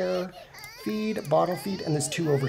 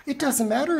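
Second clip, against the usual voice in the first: higher, exasperated repeat; 6 semitones higher than usual. Real, not acted. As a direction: throw it up in exasperation.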